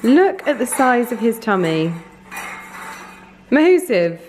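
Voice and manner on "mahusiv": loud playful exclamation; delighted exclamation. Real, not acted. Admiring the dog's tummy.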